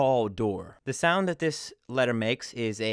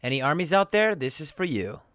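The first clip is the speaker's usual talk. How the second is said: excited fan shout-out; 4 semitones higher, 3 dB louder than usual. Real, not acted. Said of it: "greeting a band's fans".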